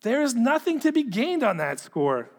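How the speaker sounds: firm, projected reading of a letter; letter read aloud. Acted. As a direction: read it out to the room, measured and emphatic.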